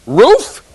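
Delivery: "Roof" high and rising, in disbelief; mock incredulous ROOF. Teacher teasing a student's vowel, incredulous high "Roof". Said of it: "You say roof, don't you?".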